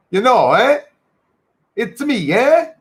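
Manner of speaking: put-on playful Italian accent, pitch swooping high on each tag question; mock Italian accent. Affectionately imitating Italians' English to a chat, mock Italian accent. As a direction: imitate Italian English with big rising endings. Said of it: "Italians have an after almost every".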